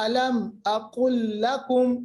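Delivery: أَلَمْ closed cleanly before أَقُلْ; measured recital, distinct mim in أَلَمْ; clear mim. Shown as a demonstration. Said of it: "میم ساکن کے بعد حمزہ تو اظہار". (میم کا صاف اظہار)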